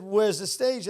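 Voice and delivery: a hint of Welsh lilt; Welsh accent. Comedian asking club staff for the stage, light Welsh accent. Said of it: "I always use Welsh accent".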